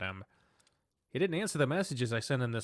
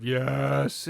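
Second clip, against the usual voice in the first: drawn-out bored answer; bored class reply; 5 dB louder than usual. Acted. Class answering the teacher in unison, bored drone. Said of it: "The class utters aboard".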